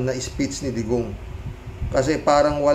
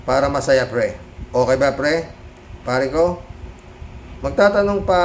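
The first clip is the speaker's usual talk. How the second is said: a hint of a tipsy drinking buddy; mocking the senator as a drunk at a drinking session, lightly voiced; drunk Robin. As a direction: slur it lightly like a drunk insisting he's sober. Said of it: "Para lasing nga".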